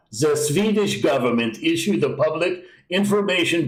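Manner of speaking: put-on mild, unsure Swedish accent; half-hearted mock Swedish accent. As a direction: try a light Swedish accent on the pamphlet. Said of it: "I don't know if that's a Swedish accent".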